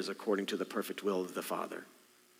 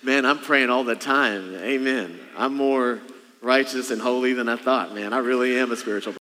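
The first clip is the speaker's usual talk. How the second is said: hammed-up self-satisfied believer, loud; a touch of smug piety; mock pious boasting; 4 dB louder than usual. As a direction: boast about being holy, half-joking. Mock self-righteous congregant.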